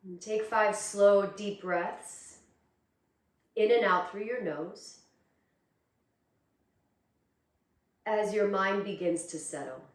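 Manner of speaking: calm, unhurried meditation guidance with long pauses; guided meditation. Acted. Teacher guiding students to close their eyes and breathe, calm meditation voice. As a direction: ease them inward, leaving space between phrases.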